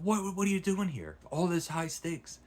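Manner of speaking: high, loud incredulous repeat; frantic disbelief. Retold or imitated. Reenacts Valjean's frantic question.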